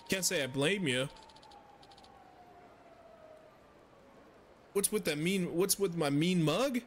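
fumbling fake Swedish NPC voice; half-hearted Swedish accent drifting toward generic European; attempted Swedish accent. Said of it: "I try to do Swedish".

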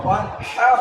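"ওয়ান হাও" with the h squeezed from the throat; pressed throat h. Shown as a demonstration. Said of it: "কণ্ঠনালীকে চাপ দিয়ে হাঁটা উচ্চারণ করতে হবে". ("ওয়ান হাও", কণ্ঠনালী চেপে হা)

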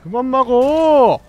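slow, loud angry shout; frustrated yell. Real, not acted. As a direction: yell at the screen to stop. Frustrated gamer yelling at boss.

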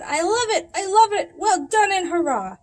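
high, loud, delighted cheering; squealing with delight; excited cheer. A narrator's reading. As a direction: cheer it like a thrilled kid. Skinny Doug's excited cheer.

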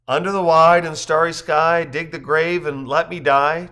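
loud, high, measured verse; ringing recital of a poem; poem recitation. Acted. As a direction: declaim the verse, slowing down.

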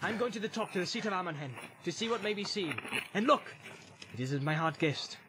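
hushed urgency on the move; hurried, breathless. A narrator's reading. Aragorn hurrying uphill after panting.

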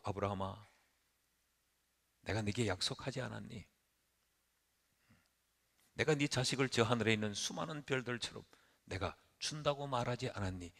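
낮고 작은 목소리로 부드럽게 달래기; 손을 잡고 약속을 일깨우듯 나직이; 다독임. Acted. 하나님이 손잡고 다독이는 말. (나직하게 다독이는 말투)

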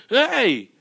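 high, loud shout; crazy prophet's yell. Acted. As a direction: holler it on the run. Acting the prophet bolting out.

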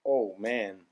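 pained groan from pepper heat; strained, burning mouth; mouth burning from spicy food. Real, not acted. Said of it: "the hot gets you right away".

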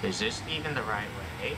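muffled, talking into a pillow. Real, not acted. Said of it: "I was talking into a pillow".

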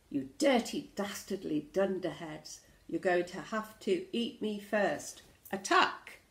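hammed-up storybook insults building to a shout; spirited mock-fierce challenge; acted defiance. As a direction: trade insults, then sharply yell the attack. Acted pirate insults and battle cry.

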